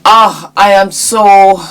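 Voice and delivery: a weary breathed whisper; drained. Real, not acted. Telling fans she is drained by sad stories, whispered wearily. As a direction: sigh the words out, worn down. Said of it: "I'm so drained".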